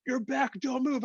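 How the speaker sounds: very high-pitched retold panic; mock alarmed warning. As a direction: imitate a frantic rescuer up high. Voicing alarmed rescuers warning him.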